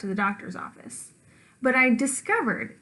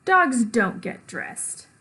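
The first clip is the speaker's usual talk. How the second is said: stern mom; 4 dB louder, much slower than usual. Acted. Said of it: "yells my mom".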